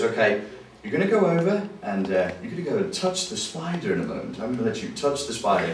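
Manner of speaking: smooth radio DJ voice, lightly imitated; Paul McKenna. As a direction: lightly put on a radio presenter's patter. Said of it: "he has that special radio D J voice".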